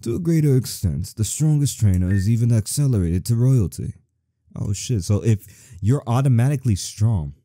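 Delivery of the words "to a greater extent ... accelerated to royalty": put-on old man voice. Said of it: "am I getting this old man".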